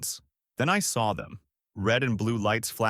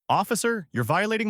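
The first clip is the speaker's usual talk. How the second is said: raised, higher and louder protest; 11 semitones higher, 3 dB louder than usual. A narrator's reading. Driver protesting to the cop as he opens the trunk, louder. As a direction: push it up, insisting on your rights. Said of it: "I said louder".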